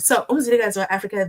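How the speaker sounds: name rattled off quickly; fast. Shown as a demonstration. Streamer rereading the quote quickly, fast. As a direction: rush the name Umzilikazi. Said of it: "read it one more time".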